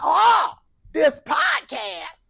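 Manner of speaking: hamming up her weary tone; mock exasperation. Mocking her sigh.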